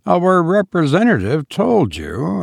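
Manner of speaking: our representative stretched out fondly, told rising; fond, lingering our representative; lingering affectionately. A narrator's reading. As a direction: savour our representative as if it were precious. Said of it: "he lingered affectionately on the words".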